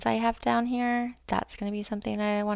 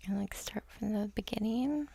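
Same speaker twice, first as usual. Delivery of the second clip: whispered; 6 dB quieter than usual. Real, not acted. Painter musing while working.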